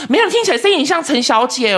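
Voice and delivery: lightly voiced caller, amused; mock caller. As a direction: imitate the caller who mistakes him for a woman. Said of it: "他说".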